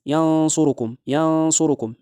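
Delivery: ينصركم chanted with the n hidden in a held nasal hum; ikhfa demo. Shown as a demonstration. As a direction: linger nasally before the s in ينصركم. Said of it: "وتطبيق هكذا".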